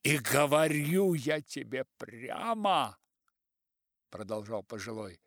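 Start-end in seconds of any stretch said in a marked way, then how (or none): 0.0-3.0 slow, loud declaration; declaring elder. Acted. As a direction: announce it bluntly. Old writer declares.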